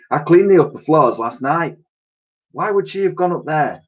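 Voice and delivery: high put-on voice for Dotty; Dotty fretting about her clean floors, high-voiced; Dotty's voice. A narrator's reading. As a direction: play the fussy cleaning lady. Dotty character voice.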